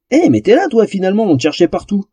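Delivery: high-pitched elf, easing down; delighted surprise. A narrator's reading. Elf finds the missing troll, happily surprised. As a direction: exclaim brightly on spotting a friend.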